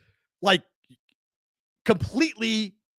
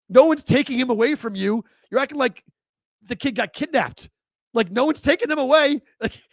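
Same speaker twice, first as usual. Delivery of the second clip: exasperated rant; 5 semitones higher than usual. Real, not acted. Ranting at crying brother on TV.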